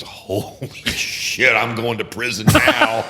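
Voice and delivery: laughing mock panic. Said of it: "and everybody's".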